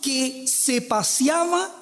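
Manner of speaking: measured Bible reading, drawn out; scripture reading. Real, not acted. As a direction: read the verse out slowly, phrase by phrase. Reads the Bible verse aloud.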